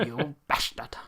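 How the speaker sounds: whispered mock insult; echoing his friend in a joking whisper. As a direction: breathe it out as a whisper.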